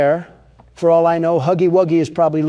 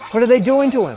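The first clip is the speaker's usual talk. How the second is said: being chased; 7 semitones higher, 4 dB louder, faster than usual. Real, not acted.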